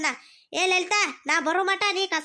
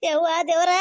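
pained wail; 5 dB louder than usual. Acted. Cry after the fall.

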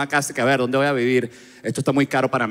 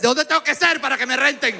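high-pitched mock exasperation; hammed-up desperate protest; exasperated outburst; 10 semitones higher than usual. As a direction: cry out in frustration, pitched way up. Exasperated reply to the suspicious question.

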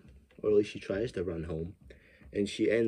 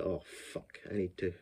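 mock panicked whisper; 2 semitones lower, 8 dB quieter than usual. Killer panics as friend arrives.

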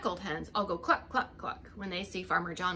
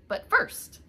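teasing build-up; 11 semitones higher, 7 dB louder than usual. Acted. Playful build-up in story.

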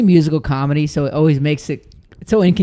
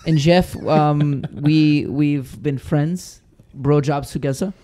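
lightly put-on German accent; German accent impression. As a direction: play your friend with a mock German accent. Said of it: "people always give me the sickest German accent".

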